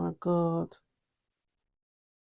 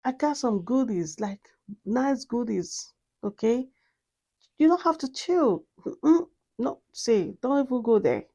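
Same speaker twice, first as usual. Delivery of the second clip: higher-pitched coaxing fragrance; pleading fragrance; 5 semitones higher than usual. Pretend. The fragrance coaxing its owner not to chill, higher. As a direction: sweet-talk like the perfume begging to stay.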